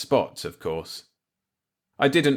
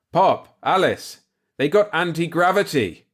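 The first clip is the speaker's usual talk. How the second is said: excited shout; 8 semitones higher, 5 dB louder than usual. Acted. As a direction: call out in stunned excitement. Calls out discovery excitedly.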